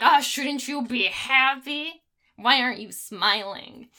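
lightly voiced groom, slow and drawn-out questions; mock oblivious groom. Man asks his upset bride about smiling, lightly mocking. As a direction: draw it out, imitating a puzzled fiance.

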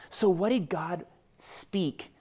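hushed, breathy aside to the congregation; whispered question. Real, not acted. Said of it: "whispers the question".

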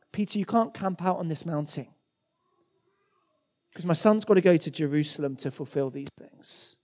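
soft fatherly correction; gentle father. Acted. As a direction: tell Peter softly, like a patient father. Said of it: "God is saying".

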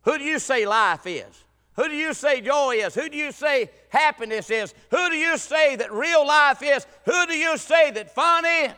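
rising preacher's call, building to a shout on life; preaching. Acted. Preacher questioning the church, building to a shout. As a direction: hammer each question at the congregation. Rhetorical questions opening the sermon.

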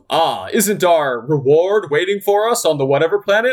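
lightly voiced general's movie line; imitating the general. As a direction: act out the general's line, a touch theatrical. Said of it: "The general goes".

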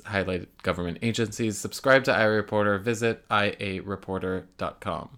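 sponsor read. Acted.

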